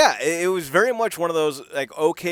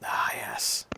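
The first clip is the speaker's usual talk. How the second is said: reverent whisper; 6 dB quieter than usual. Real, not acted. Savoring the big gun.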